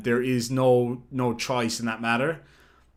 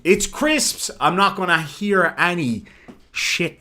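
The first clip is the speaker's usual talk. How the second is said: insistent; 4 semitones higher than usual. Real, not acted. Insisting crisps to chat.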